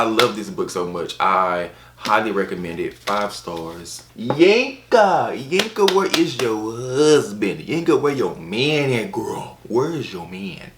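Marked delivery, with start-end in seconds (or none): 4.1-10.7 calling for Yanka. Acted. Auntie calling Yanka to ask about her man, high hollering put-on voice. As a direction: yell for Yanka like a nosy auntie.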